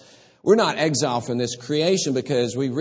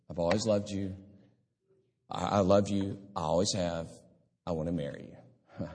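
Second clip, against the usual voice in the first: soft, lower-pitched loving proposal; tender declaration; 3 semitones lower, 6 dB quieter than usual. Retold or imitated. Preacher voices God declaring love to his people, tender and hushed. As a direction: quietly voice a heartfelt declaration, letting it fade.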